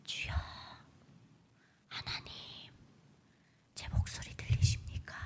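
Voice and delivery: hushed, whispered plea with long pauses; barely audible breath of a prayer; secret underground prayer. Shown as a demonstration. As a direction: whisper to God so nobody overhears. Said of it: "그렇게 불러요".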